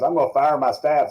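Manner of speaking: lightly acted outburst; retold dismay. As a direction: mimic an embarrassed host overreacting. Retelling host's dismayed reply.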